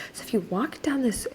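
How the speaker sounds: conspiratorial directions; 1 whispered directions. Retold or imitated. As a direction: whisper the route like a secret. Man giving directions.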